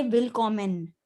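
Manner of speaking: willkommen said the German way; German pronunciation. Shown as a demonstration. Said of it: "if you wanna say welcome".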